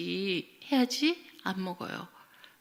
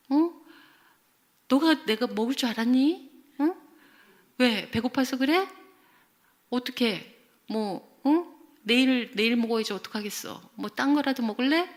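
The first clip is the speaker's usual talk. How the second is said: higher, insistent acted mother; matter-of-fact parent; 5 semitones higher, 4 dB louder than usual. Mother explains the eaten bread to sulking child, matter-of-fact reproach. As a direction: play a mother justifying herself point by point. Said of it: "첫 번째 유형을 우리는 규범형이라 그래요".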